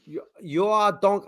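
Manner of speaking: put-on Russian accent. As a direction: attempt a Russian guard and falter. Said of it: "where we were Russian guards".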